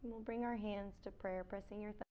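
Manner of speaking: soft, unhurried yoga-teacher voice with long pauses; quiet meditation cues, spaced out; guided meditation. Real, not acted. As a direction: guide them gently into stillness.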